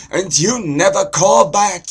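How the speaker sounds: loud, high Jewish father complaining; Jewish guy accent. Shown as a demonstration. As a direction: nag loudly in an exaggerated Jewish accent. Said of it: "so there's Jewish".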